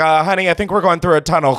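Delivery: ordinary talk, nothing marked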